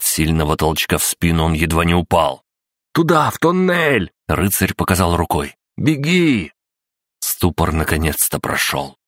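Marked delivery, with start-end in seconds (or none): 2.9-6.5 urgent shout. Acted. Knight yelling during storm.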